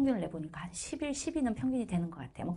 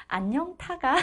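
higher, laughing retelling; deskmate's wrong answer; 6 semitones higher, 4 dB louder, slower than usual. Retold or imitated. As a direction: quote the silly answer while cracking up. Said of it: "내 친구가".

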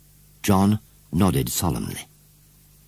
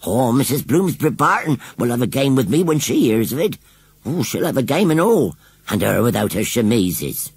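put-on higher, fretful old washerwoman telling her woes; 6 semitones higher, 3 dB louder than usual. Washerwoman telling the children about her washing, fretful. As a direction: play the put-upon village washerwoman, complaining.

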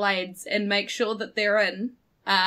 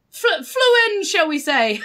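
higher, stumbling start, then settling; awkward euphemism; 6 semitones higher than usual. Acted. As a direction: put it delicately, with a nervous stumble. Simon awkwardly explains himself to squirrel.

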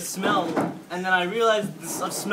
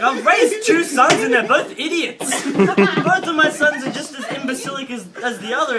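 mortified dad; 4 semitones higher, 5 dB louder than usual. Retold or imitated. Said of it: "dad's face is mortified".

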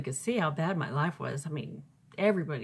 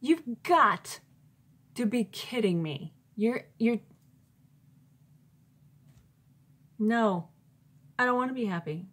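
much higher and louder, disbelieving; incredulous outburst; 4 semitones higher, 4 dB louder than usual. Retold or imitated. Stunned by God's words, an incredulous outburst. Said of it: "like, in awe".

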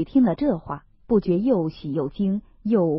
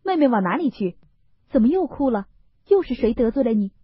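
smiling Baoyu; 5 semitones higher, faster than usual. Acted. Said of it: "便忙赶上来笑道".

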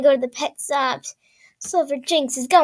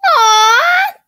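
cooing aw; 12 semitones higher, 8 dB louder than usual. Real, not acted. Sees cute pet item.

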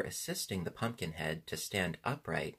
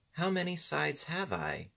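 high-pitched, puzzled question; high voice full of wonder; 8 semitones higher than usual. A narrator's reading. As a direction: ask in innocent wonder, pitched up. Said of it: "asked the creature wonderingly".

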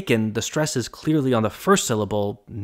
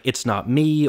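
IT'S not ME, stressed on "it's" and "me"; spoken three-beat example, "it's not me", accents at both ends; first and third stressed. Shown as a demonstration. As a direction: say "it's not me" as strong-weak-strong. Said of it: "accents on the first".

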